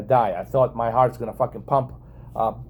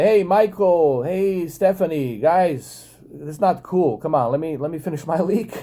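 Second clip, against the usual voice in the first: half-laughing protest to classmates; pleading call-out; 5 semitones higher than usual. Retold or imitated. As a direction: call over to the guys, begging them to let you finish. Calling out to classmates while peeing.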